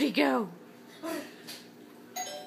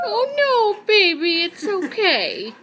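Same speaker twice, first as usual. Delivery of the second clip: soothing a pet; 5 semitones higher, 4 dB louder than usual. Real, not acted.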